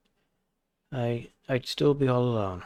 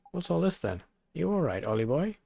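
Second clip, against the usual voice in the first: Welsh character voice; 4 semitones higher than usual. Acted. Drippy calling to Oliver, hearty Welsh voice. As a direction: call out in a Welsh lilt like an old friend.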